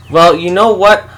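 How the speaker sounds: frustrated shout. Acted. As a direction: hurl the words at her. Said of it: "she shouted at me, frustrated".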